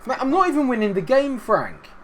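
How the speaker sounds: high, loud indignant whine; exasperated protest. Pretend. Player taunted by Frank, exasperated protest. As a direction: plead back with pitch jumping up.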